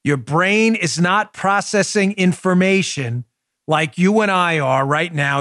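normal talking voice

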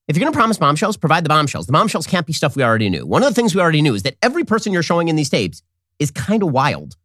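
ordinary talk

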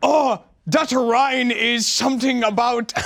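put-on crude caricature Asian accent, drawn out; mock Asian accent. Comedian improvising a line for laughs, mock Asian accent. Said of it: "some sort of racist Asian".

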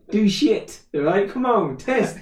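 put-on cocky kid taunt; defiant toddler. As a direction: goad a parent to try it. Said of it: "he looks at me like".

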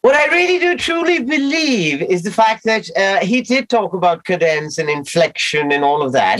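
put-on posh British accent, playful; proper English accent for the scene. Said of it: "So I do the British accent".

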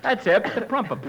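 "Phat's it, the prumpet", T as P. Acted. Tommy answering Costello, T as P. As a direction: swap each T for a P. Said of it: "He can't say the letter T".

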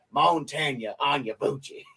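a lightly drawled name in a mock cowboy accent; fake cowboy accent. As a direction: roll the name out like a hammed-up cowboy. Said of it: "the fake cowboy accent".

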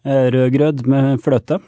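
rødgrød med fløte, slow, with a clear t; rødgrød med fløte said crisply, no hot potato; a Norwegian shows the Danish dessert the Norwegian way, slowly; Norwegian pronunciation. Shown as a demonstration. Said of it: "how would you say that without the hot potato".

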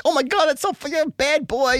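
high, gushing mock female editor. Editor cheering on the author's crazy writing, high gushing. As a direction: squeal the praise like a delighted editor. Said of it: "and she's like".

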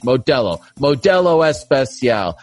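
measured announcer copy, slowing on the product name; sponsor ad read. Acted. Host reading beer copy to listeners, ad read. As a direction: read the sponsor copy, dropping low for the fine print.

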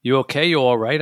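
a touch of alarm at his coughing; worried check-in. Retold or imitated. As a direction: ask fast with hidden fear. Narrator alarmed after coughing fit.

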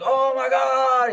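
high, drawn-out mock gushing; imitated freak-out. Host imitating his friend going nuts in the backseat, excited. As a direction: stretch it out like a friend losing it. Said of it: "going nuts in the backseat".

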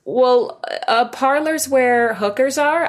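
slow, put-out correction from the owner; indignant spa owner. Retold or imitated. Spa owner corrects the caller's word, mildly indignant. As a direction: set her straight, a bit offended.

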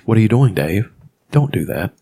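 flat, even robot monotone; monotone computer voice. Retold or imitated. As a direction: say it like an emotionless computer. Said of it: "and he's got a monotone".

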